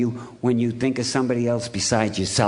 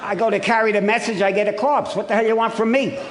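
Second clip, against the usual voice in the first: mock outrage; 7 semitones higher than usual. Real, not acted. Comic outrage at the corpse.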